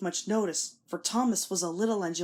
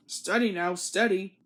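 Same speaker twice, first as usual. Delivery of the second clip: warning driver. A narrator's reading. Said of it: "warned the driver".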